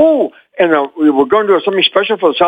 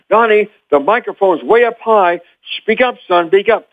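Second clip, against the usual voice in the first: director's instruction; 5 semitones higher than usual. Retold or imitated. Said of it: "I remember him saying".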